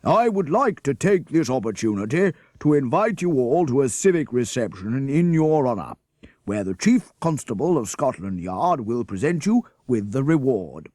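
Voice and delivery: mayor hailing the class as heroes, booming. A narrator's reading. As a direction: greet them like a proud mayor. Mayor's speech to crowd.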